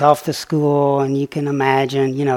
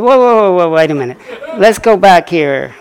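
louder, higher startled "whoa", laughing at the end; mock alarmed protest; 4 semitones higher, 11 dB louder than usual. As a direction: throw up your hands in comic alarm. Retelling shock at being called donkey.

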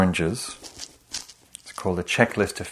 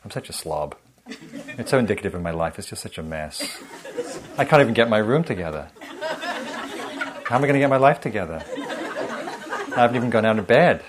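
mock self-berating; 2 semitones higher, 4 dB louder, faster than usual. Teacher voicing her own morning self-criticism, mock spiral.

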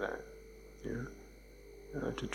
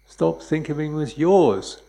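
emphatic punchline; 4 semitones higher, 6 dB louder, slower than usual. Acted. Teacher's punchline answer.

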